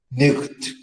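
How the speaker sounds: nicht with a guttural ch, like German; old German sound. Shown as a demonstration. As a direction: say nicht with a rasping throat sound. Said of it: "you'll laugh at me".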